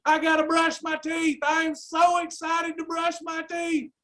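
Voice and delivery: mock enthusiasm. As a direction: pretend you're thrilled about a chore, tongue in cheek. Mock enthusiasm about brushing teeth.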